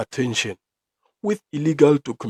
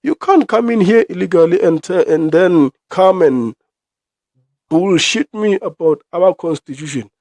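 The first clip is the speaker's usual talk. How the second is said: high, loud outraged yell; indignant yell; 7 semitones higher, 5 dB louder than usual. Retold or imitated. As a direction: cut them off in disbelief. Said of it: "I'm like".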